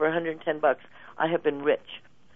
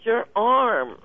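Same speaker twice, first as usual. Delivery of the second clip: soothing reassurance; 6 semitones higher, slower than usual. Retold or imitated. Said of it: "pointing at the finger, going".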